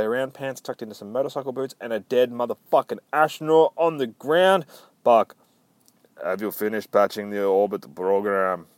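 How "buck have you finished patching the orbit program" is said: hint of a bad Russian accent. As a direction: attempt a Russian accent, amateurishly. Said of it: "really fucking good Russian accent".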